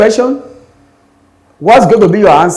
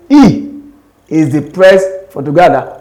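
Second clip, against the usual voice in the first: "he" raised, then falling to the end; stress on HE. Shown as a demonstration. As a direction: correct them by stressing "he". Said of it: "The word he is stressed".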